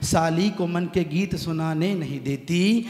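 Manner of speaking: slow, measured couplet recitation; poem recitation. Acted. Poet reciting his couplet to the audience, slow and measured. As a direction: savour each line for the audience.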